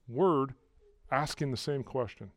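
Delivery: usual speaking voice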